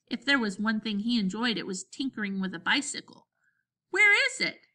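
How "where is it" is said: eager. Acted. Eager boy asks for bike.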